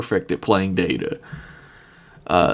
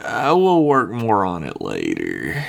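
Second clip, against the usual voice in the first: tired character; 3 semitones lower than usual. Acted. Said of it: "tired at this point".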